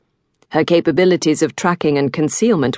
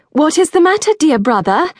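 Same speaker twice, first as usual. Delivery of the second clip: breathless, much higher; gasping; 11 semitones higher, 4 dB louder than usual. A narrator's reading. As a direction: gasp it out mid-tussle. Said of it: "Arabella gasped".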